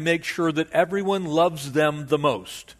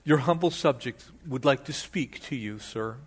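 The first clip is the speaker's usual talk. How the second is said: humble subject; 2 semitones lower, 4 dB quieter than usual. Acted. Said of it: "you can almost see him".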